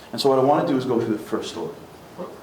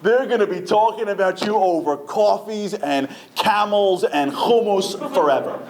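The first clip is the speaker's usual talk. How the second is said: impassioned warning; 5 semitones higher than usual. Acted. Moshe warns God of bad PR.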